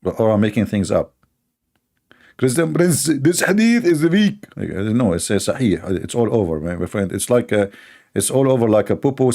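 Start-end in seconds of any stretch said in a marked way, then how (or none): 2.4-4.5 higher, slow put-on voice of a debater insisting; a hint of a smug opponent; mock Muslim debater. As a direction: lightly mimic a debater calling it weak. Mocking a Muslim opponent's claim.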